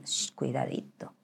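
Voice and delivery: whispered, slow shushing caution; soft cautionary hush; hushed warning. Acted. Mock warning to the self-declared saint.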